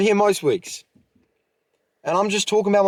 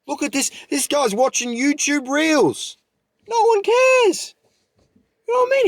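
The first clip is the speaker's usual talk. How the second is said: fired up; 8 semitones higher than usual. Real, not acted. Hyped podcaster rallying viewers to chase their dreams, fired up and high. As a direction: get the audience pumped, pitch climbing. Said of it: "I'm sorry I'm fired up".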